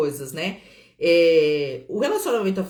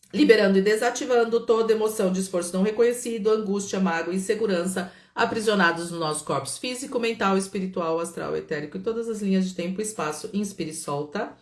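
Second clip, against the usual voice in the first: brisk recited healing formula; guided release invocation. Acted.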